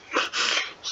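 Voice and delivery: short mock laugh; brief breathy imitation of someone laughing; acted laugh. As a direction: give a quick put-on chuckle. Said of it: "like, hysterically. He's like".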